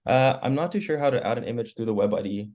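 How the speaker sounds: scratchy throat after a cold; rough, worn-out hoarse voice. Real, not acted. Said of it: "losing my voice here".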